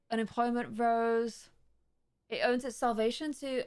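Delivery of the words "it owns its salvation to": reading with a hair in mouth. Real, not acted. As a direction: talk around a hair in mouth. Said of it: "I've got a hair in my mouth".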